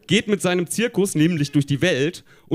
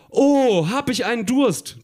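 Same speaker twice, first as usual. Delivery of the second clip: higher-pitched, drawn-out Oh; exclaimed thought; 7 semitones higher, slower than usual. A narrator's reading. Tina thinks aloud about her thirst, exclaiming. Tina's thought voiced in story.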